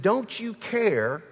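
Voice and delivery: frantic disciples waking their teacher; panicked. Acted. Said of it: "they're panicking".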